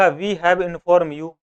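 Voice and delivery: each word drawn out very slowly; slow classroom dictation. Shown as a demonstration. Teacher reads example sentence.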